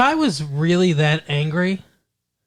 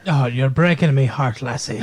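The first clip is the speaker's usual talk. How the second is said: lightly hammed-up Irish father; a touch of stage Irish; mock Irish; 2 semitones lower than usual. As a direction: put on a mock Irish lilt. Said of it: "I'm Irish, God".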